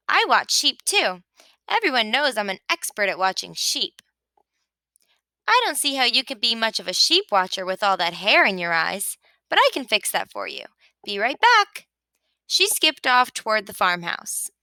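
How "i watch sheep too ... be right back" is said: a hint of a chirpy sheep, quick and eager; lightly voiced Sheep. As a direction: rattle it off like a busy know-it-all. Sheep's voice held.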